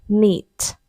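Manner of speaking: "knit" said as "nit", with no k sound; "knit" with a silent k. Shown as a demonstration. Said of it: "K-nya tidak perlu dibaca".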